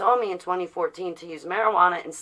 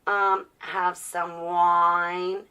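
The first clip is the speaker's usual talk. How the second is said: mock-polite asking; much slower than usual. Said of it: "I don't have to ask".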